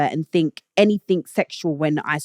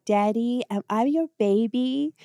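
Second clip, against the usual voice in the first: put-on higher, rising babyish question; lightly mimicked pleading with a rising lilt; imitating a lover's plea; 4 semitones higher, 3 dB quieter than usual. Woman asking her lover if she's his baby, imitated pleading. Retelling the leaked clip, as her.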